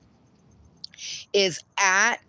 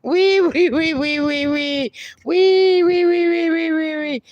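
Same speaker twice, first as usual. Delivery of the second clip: very high, loud squeals; piercing playful wees; loud squealing; 7 semitones higher, 5 dB louder than usual. Pretend. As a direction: squeal loud to wake him. Squealing to wake dog.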